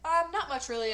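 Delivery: stammered. Acted. Caught off guard by an old friend, nervous stammer. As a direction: fumble it out nervously. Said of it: "I stammered".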